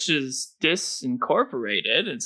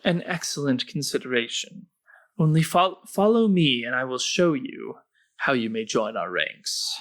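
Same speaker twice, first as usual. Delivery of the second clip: ominous hooded stranger. Acted. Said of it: "the hooded figure says".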